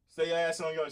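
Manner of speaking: a hint of a Southern twang; Southern accent slipping out. Real, not acted. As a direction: let the home accent come through. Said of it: "I got my accent coming out".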